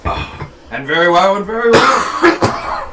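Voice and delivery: slow, high, grand showman. Acted. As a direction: draw out the praise like a ringmaster. Carnival showman applauding.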